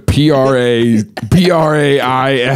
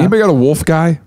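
youth pastor voice; 5 semitones higher, faster than usual. Pretend. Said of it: "something a youth pastor would ask".

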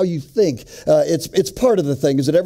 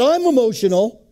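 mildly indignant higher-pitched retort; raised voice; 5 semitones higher than usual. Retold or imitated. Wife throws husband's accusation back at him, voice raised a little. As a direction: imitate a wife taken aback. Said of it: "she raised her voice a little bit".

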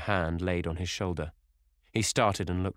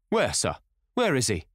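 higher, raised urgent call; shouted question; 6 semitones higher, 5 dB louder than usual. A narrator's reading. Head keeper running up to Sir Geoffrey, shouting. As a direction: shout it as you come running. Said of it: "he shouted".

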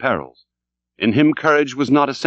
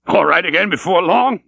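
high, louder, laughing echo of long; mocking laugh; 8 semitones higher, 4 dB louder than usual. A narrator's reading. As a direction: throw the words back with scornful laughter. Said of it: "laughed the stranger".

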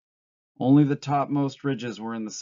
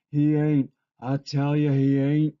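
loud, higher-pitched desperate protest; upset, raised-voice refusal; distressed denial; 4 semitones higher, 6 dB louder than usual. A narrator's reading. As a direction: insist against what you fear. Lenny blocks out rabbit's taunts.

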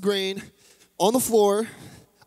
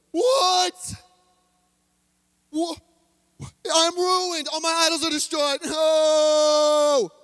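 shrill high shout, much higher, freaking out; father's panicked shout; 10 semitones higher, much slower than usual. Acted. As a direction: scream in horror at the ruined shop. Father finds idols smashed.

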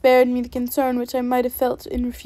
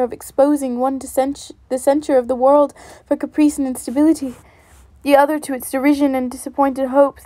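louder, heated accusation; indignant reproach; 4 dB louder than usual. Acted. Elizabeth accusing Darcy of parting her sister, louder and indignant. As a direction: lay the blame on him hard.

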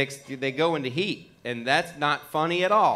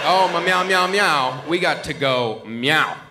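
louder meows, slow at the end; a cat pleading to leave now; urgent cat meowing; 3 dB louder, slower than usual. Retold or imitated. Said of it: "And he was like".

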